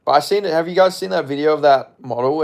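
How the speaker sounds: ordinary delivery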